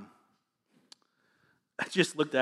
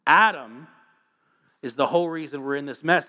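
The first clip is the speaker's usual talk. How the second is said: emphatic preaching; 6 dB louder than usual. Real, not acted. Preacher driving home point.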